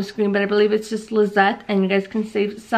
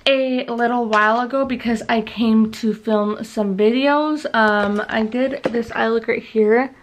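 talking around a retainer; wearing a retainer. Real, not acted. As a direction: retainer in, slightly slurred. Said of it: "it's because I have my retainer in".

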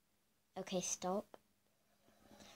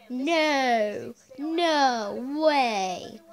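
nervous laugh; 8 dB louder, much slower than usual. Real, not acted. Nervous reaction to clown ad.

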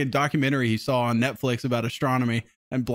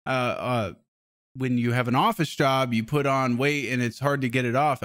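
imitating an Indian accent; light put-on Indian accent; 2 semitones lower than usual. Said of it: "my racist Indian guy accent".

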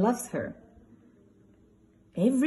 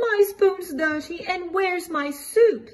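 put-on little Baby Bear voice; 9 semitones higher than usual. A narrator's reading. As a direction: play the tiny baby bear, high and light. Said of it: "asks Baby Bear".

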